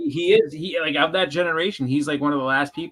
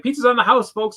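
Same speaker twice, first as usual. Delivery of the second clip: mock Flair; 6 semitones higher, 4 dB louder than usual. Ric Flair buying for everyone.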